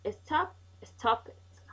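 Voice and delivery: slow model word. Shown as a demonstration. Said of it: "we add E D".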